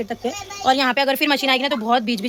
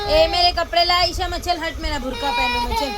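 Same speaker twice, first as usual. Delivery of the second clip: mock huffy leaving; 5 semitones higher than usual. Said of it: "मैं भी चले जाती हूँ मम्मद के पास".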